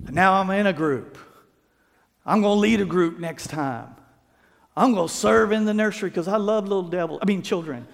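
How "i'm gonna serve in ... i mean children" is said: joking aside. Real, not acted. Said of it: "I'm kidding".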